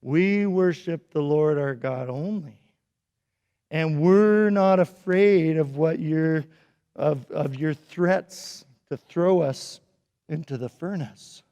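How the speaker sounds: calm firm refusal. Acted. Three friends answering the king, calm and steady. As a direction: calmly stand firm. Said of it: "they said".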